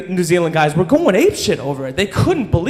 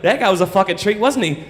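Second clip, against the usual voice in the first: put-on New Zealand accent; 3 semitones higher than usual. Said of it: "those New Zealand guys like".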